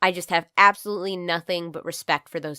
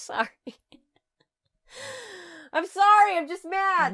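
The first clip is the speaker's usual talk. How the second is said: apologetic; 10 semitones higher than usual. Real, not acted. Apologizing after scaring the dog.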